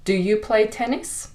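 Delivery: "Do you play tennis?" rising at the end; plain rising question on "tennis"; regular question tune. Shown as a demonstration. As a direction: ask "tennis" as an open question, voice lifting. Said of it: "with the regular question".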